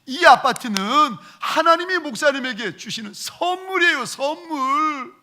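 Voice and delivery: mock yell of an exasperated elder; retold shouting. Deacon shouting at the pastor over the apartment, retold yell. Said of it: "막 소리를 지르시는 거예요".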